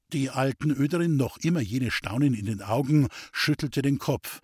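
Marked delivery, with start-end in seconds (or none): none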